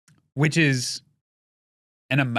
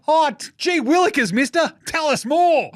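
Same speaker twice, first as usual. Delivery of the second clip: put-on high, gee-whiz eager kid; wholesome 1950s kid; 12 semitones higher, 4 dB louder than usual. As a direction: gush like an awestruck boy. Mocking awed kid voice.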